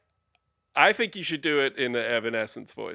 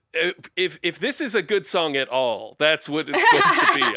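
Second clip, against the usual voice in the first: laughing; 4 semitones higher, 5 dB louder than usual. Real, not acted. Laughing while talking.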